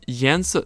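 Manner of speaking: 颜色 with 颜 rising and 色 falling; second then fourth tone. Shown as a demonstration. Teacher introducing the word for color, 颜色 as second tone then fourth tone. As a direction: say 颜色 rising, then dropping sharply in tone. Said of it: "second tone, fourth tone".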